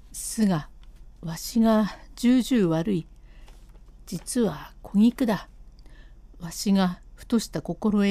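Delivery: a guilty husband coaxing his wife to go home; husband's voice. Acted.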